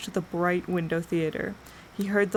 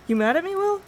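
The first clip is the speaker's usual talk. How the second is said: much higher, worried plea; anxious question; 12 semitones higher, 5 dB louder, faster than usual. A narrator's reading. Jim asks Will if he is mad, high and worried.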